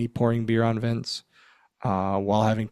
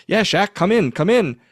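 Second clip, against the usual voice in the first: higher, louder eager call to come in; eager invite; 9 semitones higher, 5 dB louder than usual. Retold or imitated. Inviting Shaq into the shot, eager and raised. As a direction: wave him into the shot, keen. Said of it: "And so I was like".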